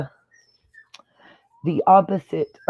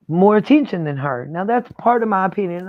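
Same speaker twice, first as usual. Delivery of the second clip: talking through hiccups; hiccuping. Real, not acted. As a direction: hiccups breaking the words. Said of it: "I'm sorry I'm hiccuping".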